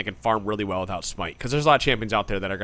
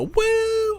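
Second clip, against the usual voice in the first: high, drawn-out party whoop; concertgoer's woo. Acted. Imitating a party girl at a concert, high whooping cheer. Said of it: "when people are at a concert and they go".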